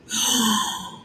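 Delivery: quick high startled gasp; sharp gasp. Real, not acted. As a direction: suck in air at a sudden discovery. Discovers she pinned a message.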